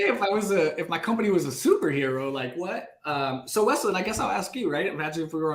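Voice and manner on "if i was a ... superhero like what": much higher, laughing, startled prospect; mock surprise. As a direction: play the caught-off-guard prospect, half laughing. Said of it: "You're like".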